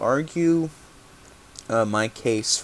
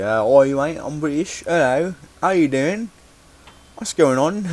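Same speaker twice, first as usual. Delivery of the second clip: imitating a British accent, higher and louder; hammed-up kid's British accent, higher and louder; mock British accent; 6 semitones higher, 5 dB louder than usual. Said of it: "pretending I was British".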